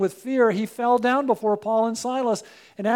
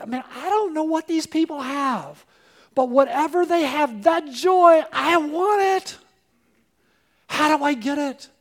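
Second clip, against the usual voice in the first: eager seeker; 4 semitones higher, 3 dB louder than usual. Retold or imitated. Visitors quoted wanting the joy.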